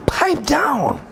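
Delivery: high firm pipe down. Acted. Uncle telling the nephew again to pipe down. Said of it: "repeat of pipe down".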